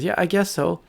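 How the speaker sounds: high little bird voice; agreeing little bird. Acted. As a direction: agree lightly as a small bird.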